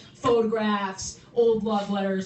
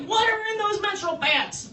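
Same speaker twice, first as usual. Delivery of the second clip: mock panicked shout; 7 semitones higher than usual. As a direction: shout it in staged alarm. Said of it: "they'd be like".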